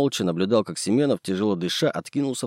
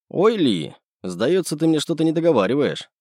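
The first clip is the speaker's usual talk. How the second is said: mild suspicious squint; 7 semitones higher, 3 dB louder than usual. A narrator's reading. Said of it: "прищурился я".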